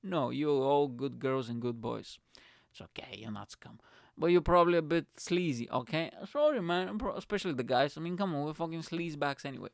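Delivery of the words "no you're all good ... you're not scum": mock reassurance. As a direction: soothe them playfully in a near-whisper. Mock-soothing listeners after calling them scum.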